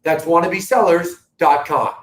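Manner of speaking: measured TV ad plug, web address spelled out deliberately; playful TV announcer delivery. Pretend. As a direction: put on a TV presenter's voice for the plug. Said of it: "recognize my T V voice right there".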